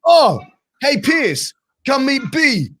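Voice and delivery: high, loud shout across the street; excited call. Retold or imitated. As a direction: call him over warmly and loud. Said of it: "Sen's like".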